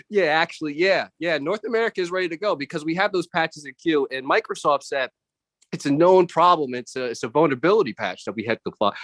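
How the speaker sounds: polite office jargon; corporate meeting voice. Retold or imitated. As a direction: professional call voice. Back on call, corporate voice.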